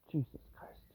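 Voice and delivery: very soft, low exasperated curse; muttered oath. Real, not acted. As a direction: mutter it to yourself. Muttered curse at slow progress.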